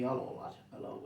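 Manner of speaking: a hint of Bill Shankly's deep accent; low, muted imitation of Shankly's accent. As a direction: lightly imitate a deep-accented football manager, low and soft. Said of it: "in that deep accent".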